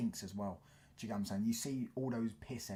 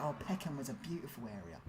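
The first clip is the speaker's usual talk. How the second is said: nostalgic nan; 4 semitones higher than usual. Retold or imitated. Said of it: "She kept saying".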